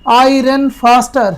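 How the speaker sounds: slow teaching read; slow dictation. Shown as a demonstration. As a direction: dictate it slowly. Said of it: "fast की comparative बना दो बेटा".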